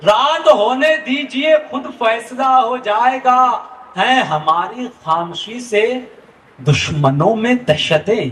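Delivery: slow, measured poetic recitation; stately nazm recitation. Acted. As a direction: recite each line with weight. Poet repeats verses for audience.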